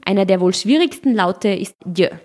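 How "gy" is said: J said as Hungarian gy; Hungarian gy sound. Shown as a demonstration. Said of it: "in anderen Sprachen nicht geläufigen Laute".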